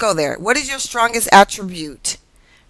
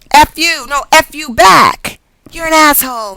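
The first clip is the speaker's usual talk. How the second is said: higher-pitched mock squabbling; mock quarrel; 6 semitones higher than usual. Tarot reader voices fighting dragons, higher mock-angry insults. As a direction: trade playful insults like bickering dragons.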